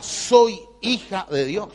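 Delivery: slow, gentle self-blessing; inner affirmation. Shown as a demonstration. Preacher shows the congregation a morning affirmation, slow and gentle. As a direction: let each word settle, unhurried. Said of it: "y pensá".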